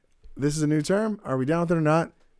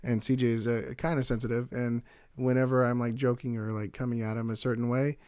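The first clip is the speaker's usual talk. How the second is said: softer, confiding answer; quiet candid answer; 3 semitones lower, 8 dB quieter than usual. Pretend. Host answering the fan's question, soft and confiding. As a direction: lower the voice and confide. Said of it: "We do a little role play".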